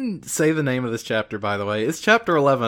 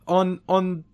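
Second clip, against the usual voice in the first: high, fast, stammering panicked thug; cowering thug; 8 semitones higher, 5 dB louder than usual. Retold or imitated. Beaten thug begs Majima, high and panicky. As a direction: babble it out, terrified of another beating. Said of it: "the lead thug is like".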